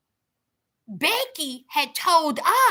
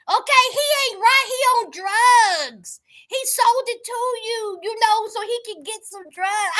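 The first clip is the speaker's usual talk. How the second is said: retold indignation; 5 semitones higher than usual. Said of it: "She was like".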